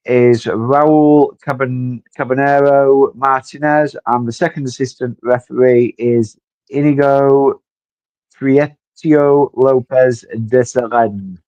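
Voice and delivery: names read in a Spanish accent; slow Spanish accent on names. Shown as a demonstration. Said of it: "in my best Spanish accent I could put on".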